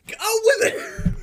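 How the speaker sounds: high, loud, drawn-out through real laughter; laughing shout. Real, not acted. Friend defending the sign language joke, laughing shout. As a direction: burst out laughing on the words.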